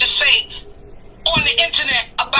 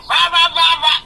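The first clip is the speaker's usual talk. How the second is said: mock ranting in nonsense syllables, slightly raised pitch; rah-rah imitation of a tirade; imitated yelling; 2 semitones higher than usual. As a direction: mimic someone carrying on without really shouting. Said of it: "She started yelling and screaming".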